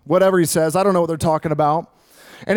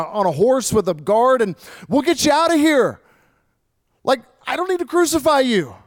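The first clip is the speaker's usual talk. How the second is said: higher and louder, pleading hard; Pilate pleading urgently; 7 semitones higher, 5 dB louder than usual. Acted. Pilate begging Jesus to speak up, high and urgent. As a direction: push the offer, desperate to save him.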